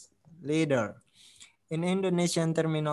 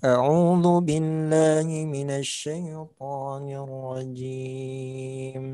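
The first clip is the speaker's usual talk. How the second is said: Quran recitation; faster than usual. Acted.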